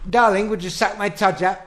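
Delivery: lightly voiced pompous old-film husband; a hint of a domineering 1940s gent, brisk; posh film husband. Husband bossing his wife, lightly voiced posh film gent. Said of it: "It'd be".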